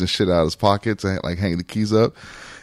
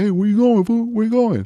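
high mock yell at the car; yelling drunk; 9 semitones higher than usual. Drunk stranger yelling at them by the car, mock yell.

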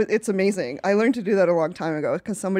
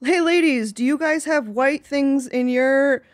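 mock commenter; 4 semitones higher, much slower than usual. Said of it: "she asked".

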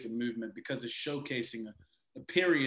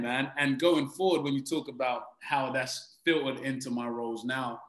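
normal talking voice

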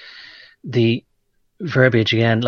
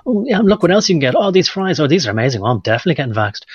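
mock food-ad pitch; 5 semitones higher, 3 dB louder than usual. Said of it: "he was saying".

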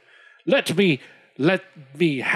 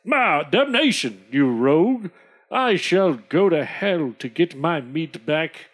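furious squire; 4 semitones lower than usual. Acted. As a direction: bluster and curse. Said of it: "Squire Jack says".

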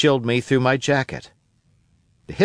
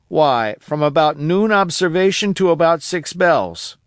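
put-on a higher, eager old sailor voice; old castaway Ben Gunn; 4 semitones higher than usual. Old castaway telling Jim about Flint, eager and higher. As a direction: spin the tale of Flint like a wild old castaway.

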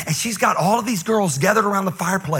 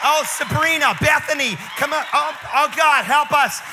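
put-on panicked white girls; 8 semitones higher than usual. Scared teen girl shrieking at the pranksters in the dark. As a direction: shriek in a panic, running in circles. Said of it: "they're like".

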